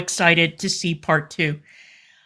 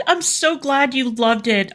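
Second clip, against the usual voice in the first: higher, sarcastic fan-pleasing tone; mock gushing; 5 semitones higher than usual. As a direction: fake sweetness for a superfan.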